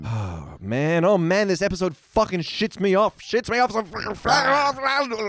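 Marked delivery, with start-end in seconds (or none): 1.1-5.3 slow, high exasperated moan; drawn-out frustrated groan, pitched up; exasperated rant. Real, not acted. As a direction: stretch it out in disgust. Ranting about the episode.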